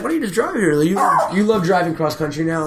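a high, needling mom pushing the idea; imitating mom. Son mimics his mom urging him to drive home, high mocking voice. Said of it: "she's like".

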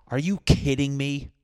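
loud, high disbelief; exasperated outburst. Retold or imitated. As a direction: blurt it out loud in outrage. Biting into raw chicken.

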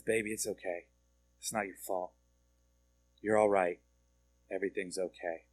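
soft, hushed reassurance to a crying husband; tender comfort. Retold or imitated. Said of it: "she just holds me as I'm crying".

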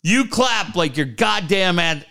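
bossy coach order. Retold or imitated. Coach ordering Beaner to clap.

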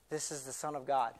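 low and reverent; hushed awe. Acted. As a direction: say it softly, in wonder. Awed aside about Jesus.

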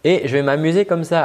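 playful sing-song on "m'amuser comme ça"; scale-like melody. Shown as a demonstration. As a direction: run "m'amuser comme ça" over notes like a vocal scale. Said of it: "comme si je faisais des gammes".

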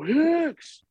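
high, drawn-out holler of a name; yelled call-out. Retold or imitated. Fan hailing a player on the field, yelling. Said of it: "I yell at him".

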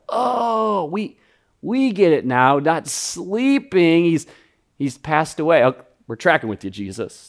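mock dawning realization. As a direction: play the disciples catching on a little late. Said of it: "And they're all like".

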